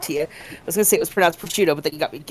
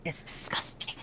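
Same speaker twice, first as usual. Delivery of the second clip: breathy whisper through a sore throat; hoarse whisper; 7 dB quieter than usual. Real, not acted. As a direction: voice gone from a cold. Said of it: "this cold is kicking my ass".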